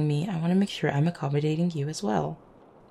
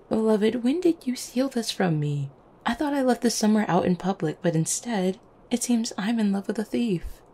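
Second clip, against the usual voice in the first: higher, playful indignation; mock accusation; 5 semitones higher than usual. To a beloved who took the jacket, mock accusing. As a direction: accuse them in teasing disbelief.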